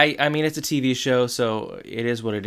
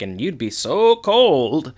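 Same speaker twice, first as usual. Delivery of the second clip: slow, higher-pitched mock complaint; playful teasing; 4 semitones higher, 4 dB louder, slower than usual. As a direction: draw it out to poke fun at a spouse. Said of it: "married couple poking fun at each other".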